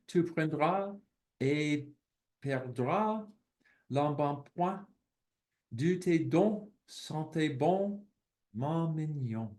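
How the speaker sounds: slow, careful reading of a French verse; poem recitation in French. Acted. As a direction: savour each short rhymed line. Reads French poem aloud.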